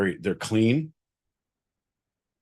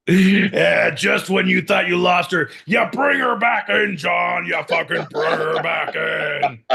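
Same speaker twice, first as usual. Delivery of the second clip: high, loud triumphant shouting; elated cheering; 9 semitones higher, 5 dB louder than usual. Real, not acted. Host cheers John for bringing it back, elated shout. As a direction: cheer him on at full voice, stretching the end. Cheering John's last-moment recovery.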